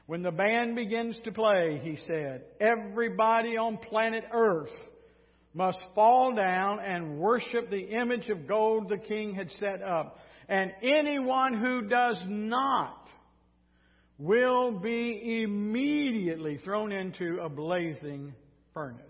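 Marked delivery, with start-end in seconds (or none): 0.0-1.8 mildly theatrical official proclamation; lightly voiced herald announcing orders; press secretary's announcement. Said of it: "announced the king's orders". 2.6-19.0 slow, raised official proclamation; press secretary's announcement. Acted. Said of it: "announced the king's orders".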